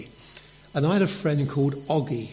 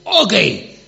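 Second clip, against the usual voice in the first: high, loud cry for a friend; shouted call for help; 6 semitones higher, 11 dB louder than usual. Retold or imitated. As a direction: yell the name across a playground. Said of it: "and I shouted".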